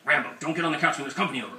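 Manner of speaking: quick, fussy scolding of a dog; mock scolding. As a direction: rattle off an over-specific reprimand. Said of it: "so specific about scolding him".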